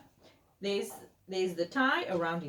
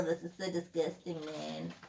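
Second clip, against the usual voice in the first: disgusted; 4 dB quieter than usual. Acted. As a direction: play the dog grossed out by the bog. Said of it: "He's like".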